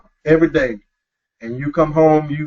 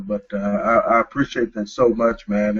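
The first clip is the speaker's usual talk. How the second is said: holding back emotion; 6 semitones lower, 3 dB quieter than usual. Real, not acted. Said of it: "I don't wanna get emotional".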